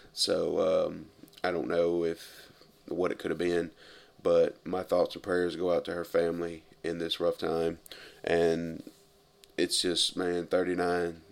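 quiet and sincere tribute; somber. Real, not acted. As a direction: softly pay your respects. Condolences for a death.

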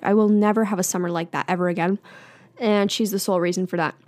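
talking with something in mouth; words around something in the mouth; mouth full. Real, not acted. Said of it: "I have something in my mouth".

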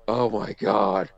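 drawn-out mock "oh my God"; retold dismay. Trainee reacting to the ropes challenge, mock dismay. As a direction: stretch it out in mild dismay.

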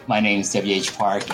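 ordinary delivery

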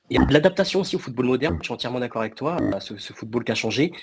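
son de micro robotique qui grésille; glitchy robotic call; voix de robot. Real, not acted. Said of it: "Une voix de robot". (voix robotique qui grésille)

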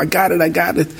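excited call. Retold or imitated. Friend returns with the notebook.

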